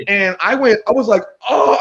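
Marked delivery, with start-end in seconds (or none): 1.5-1.8 high, loud stunned exclamation; mock shock. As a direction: act out being floored. His shocked reaction on stage.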